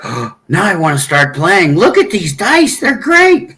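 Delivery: rising, high and gushing; a hint of a thrilled wife; mock excited wife. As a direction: gush over the dice like the buddy's wife.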